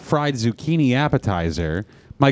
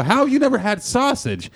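high-pitched retold disbelief; incredulous question; 10 semitones higher than usual. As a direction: act out being baffled by grandma. Retold disbelief at grandma's confession.

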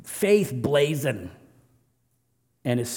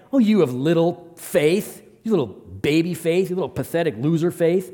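mocking taunt; 3 semitones higher than usual. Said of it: "It's not what he's saying".

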